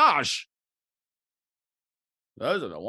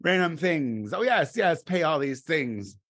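carefree splurge voice; 3 semitones higher, 3 dB louder than usual. Retold or imitated. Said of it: "I'm like".

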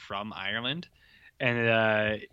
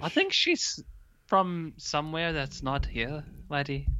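put-on vague Irish-Scottish accent. Co-host dodging where she's from, vague Irish-Scottish accent. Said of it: "Irish or Scottish?".

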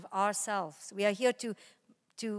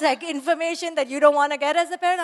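ordinary talk, nothing marked

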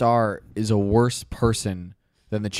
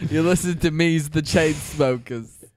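put-on British accent; 3 semitones higher than usual. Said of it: "I thought they were British".

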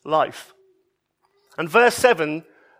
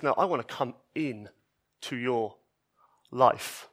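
much softer, lower, gentle offer; tender invitation; 5 semitones lower, 8 dB quieter than usual. Retold or imitated. Jesus to the outcasts and sinners, soft and tender. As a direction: offer it quietly, like to a frightened person. Jesus answers fear of angry God.

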